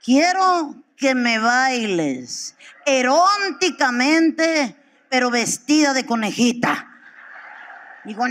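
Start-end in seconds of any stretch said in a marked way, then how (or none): 0.0-6.9 slow, drawn-out lustful request; husband drags out his fantasy, slowly; slow sultry husband. Retold or imitated. Husband asking his wife for a dance, slow and lustful. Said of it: "Le digo".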